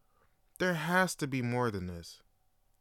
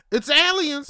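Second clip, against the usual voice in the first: hyped reveal; 14 semitones higher, 10 dB louder than usual. Acted. Host revealing the episode topic with a hyped shout. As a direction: shout it high and loud like a big reveal.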